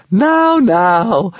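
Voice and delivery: loud, high singsong scolding. A narrator's reading. Stormfly chides the attacking dragon in singsong. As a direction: sing it out playfully. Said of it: "sang the Stormfly".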